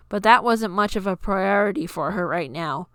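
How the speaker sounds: ordinary delivery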